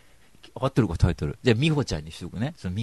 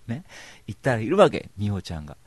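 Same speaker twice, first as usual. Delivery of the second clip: normal talking voice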